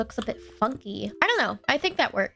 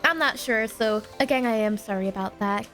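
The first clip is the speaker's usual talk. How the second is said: congested, stuffy voice; blocked nose. Real, not acted. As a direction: talk through a blocked nose. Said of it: "I'm a little bit congested".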